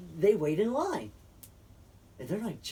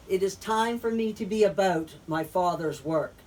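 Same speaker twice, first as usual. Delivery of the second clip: solemn declaration; 4 dB louder than usual. Retold or imitated. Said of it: "and he says".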